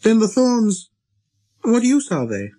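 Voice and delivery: put-on high child-prince voice; little prince, inquiring. A narrator's reading. Little prince asking the pilot about thorns, inquiring. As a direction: press the question in a high little voice.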